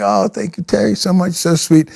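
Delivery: lightly gushing thanks; grateful thanks. Retold or imitated. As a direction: thank him sweetly, a little shy. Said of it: "I'm like".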